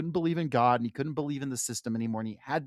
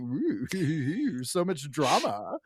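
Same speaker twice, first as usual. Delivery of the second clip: gleeful gossip; slower than usual. Retold or imitated. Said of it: "He's like".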